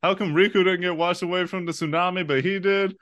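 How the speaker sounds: high, excited run of questions; bewildered ranting. Retold or imitated. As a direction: fire off the questions in giddy disbelief. Retelling childhood confusion, excited.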